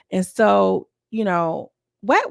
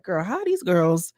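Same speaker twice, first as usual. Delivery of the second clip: exasperated rant; 5 semitones higher than usual. Retold or imitated. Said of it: "I'm like".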